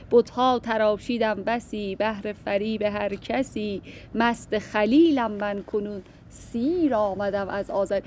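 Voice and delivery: slow, measured verse reading; poem recitation. Acted. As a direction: recite the couplet slowly, each word weighed. (شعرخوانی آرام و شمرده)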